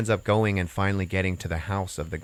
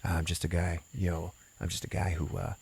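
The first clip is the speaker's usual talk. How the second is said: hesitant homeless man; 2 semitones lower, 7 dB quieter than usual. Retold or imitated. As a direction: imitate a humble guy mumbling his introduction. Retelling the homeless man's humble reply.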